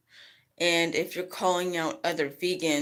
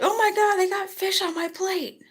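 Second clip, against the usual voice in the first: mock shocked vegan; 13 semitones higher than usual. Mock shocked vegan, high far.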